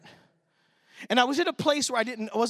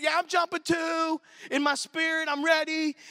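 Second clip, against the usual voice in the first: eager and excited; 5 semitones higher than usual. Retold or imitated. Joining the crowd's excitement.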